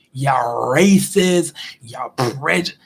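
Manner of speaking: slow, deliberate telling-off of the boss; slow mock telling off. Employee slowly telling off the manager, deliberate mock anger. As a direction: spell out every grievance to the boss slowly. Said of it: "tell their manager exactly how they feel".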